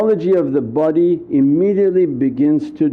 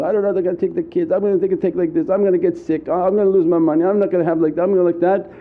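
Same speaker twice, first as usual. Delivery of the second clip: anxious muttering; much faster than usual. Retold or imitated. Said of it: "Anytime you sit and whisper".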